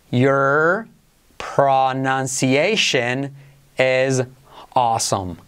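"Your... pronunciation... is... awesome", very slow with pauses; palabra por palabra. Shown as a demonstration. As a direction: spell out each word slowly for learners. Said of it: "frase de referencia". (muy despacio, con pausas entre palabras)

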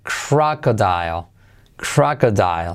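"crocodile" said slowly and low, ending on a dark L; key final L. Shown as a demonstration. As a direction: draw out "crocodile" down onto its final L. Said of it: "letra clave L". ("crocodile" lento, con la L final marcada)

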